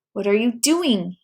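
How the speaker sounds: slow, lightly voiced angry robber; a hint of menace, drawn out; mild anger. Robber demanding the keys from the boy, mildly angry. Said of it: "he said angrily".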